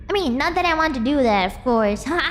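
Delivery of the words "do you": high voice bubbling with laughter; laughing, squeaky and amused; giggling question. Real, not acted. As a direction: ask it through high giggles. Giggling over friend trying it.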